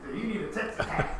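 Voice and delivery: a touch of a drawling cowboy; redneck voice. Retold or imitated. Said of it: "in his little redneck voice".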